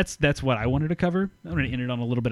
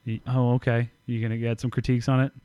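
condescending. Real, not acted. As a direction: ask it with quick, mild condescension. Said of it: "like I did, all condescending".

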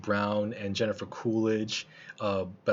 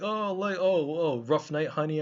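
catcaller; 5 semitones higher than usual. Retold or imitated. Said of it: "they're like".

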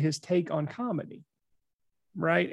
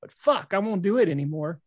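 exasperated; 2 semitones higher than usual. Retold or imitated. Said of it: "He goes".

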